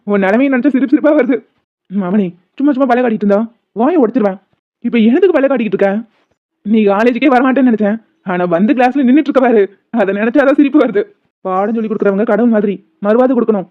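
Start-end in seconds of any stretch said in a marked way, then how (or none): 1.9-3.4 loud threatening yell; angry threat. Acted. Friend threatens his laughing pal, loudly angry. 3.8-4.4 வாயை shouted loud, falling hard at the end; loud angry threat. Acted. Friend shouts the threat at his grinning pal. 4.9-13.7 raised voices throughout; loud. Acted. Two friends trade loud taunts in class.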